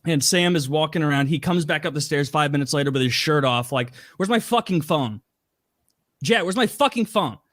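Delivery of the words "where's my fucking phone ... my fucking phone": higher, irritated retold demand; lightly mimicked anger. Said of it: "Like, just mad, angry, going around".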